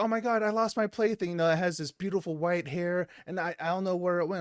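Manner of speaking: lightly voiced little girl; a hint of a child fretting over a lost toy. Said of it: "you meet this little girl".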